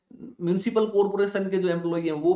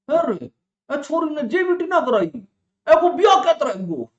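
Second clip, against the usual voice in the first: high, slow rustic village auntie; village gossip voice; 9 semitones higher, 6 dB louder, slower than usual. Retold or imitated. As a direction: mimic a nosy village elder. Villagers gossiping in rural dialect.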